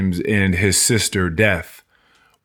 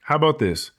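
higher, offhand deal; casual offer; 5 semitones higher than usual. Retold or imitated. Dream offers the drunk a bargain, higher and offhand. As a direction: toss out the deal lightly. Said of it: "he was like".

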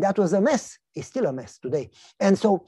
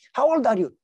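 much higher mocking neighbor voice; teasing neighbor; 6 semitones higher, 6 dB louder than usual. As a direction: needle him like a nosy neighbor. Neighbor Jim.

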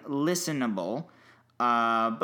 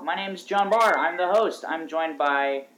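muffled, like through water; bad muffled mic sound; underwater. Real, not acted. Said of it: "sounds like it's underwater".

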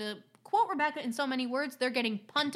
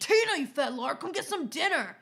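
imitating the grandma line; 3 semitones higher than usual. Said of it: "quote from Napoleon Dynamite".

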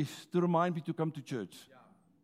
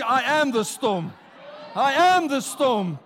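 I am the storm, louder and slower; rising shout of I am the storm; louder declaration; 3 semitones higher, 4 dB louder than usual. Shown as a demonstration. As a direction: proclaim it louder each time, slow and strong. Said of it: "Tell somebody, louder and louder".

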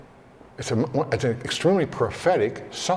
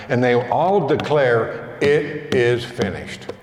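slow scripture reading; 2 semitones lower than usual. Acted. Reads Psalm verses, slowed.

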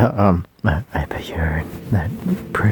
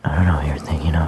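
airy unvoiced whisper after a plain take; ASMR whisper; 3 semitones lower, faster than usual. Shown as a demonstration. Correcting himself into the airy ASMR voice. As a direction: redo it as a breathy ASMR whisper. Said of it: "talk in that weird, airy voice".

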